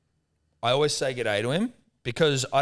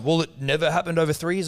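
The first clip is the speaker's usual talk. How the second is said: imitating neighbour; 5 semitones higher than usual. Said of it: "he just kept going".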